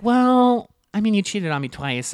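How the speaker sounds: high drawn "well", then pointed; retold bickering. Girlfriend bickering with boyfriend, mock pointed retort. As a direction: toss back a mild mock accusation. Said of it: "And she's like".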